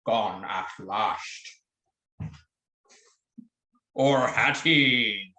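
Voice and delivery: dramatic movie-trailer pirate. Acted. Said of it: "Nice pirate voice".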